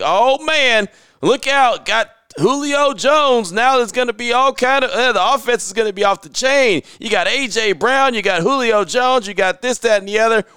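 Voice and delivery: high-pitched imitation of fan hype; hyped-up fans. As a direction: gush like a hammed-up believer. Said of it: "when Titans fans thought that Julio Jones was gonna be the guy".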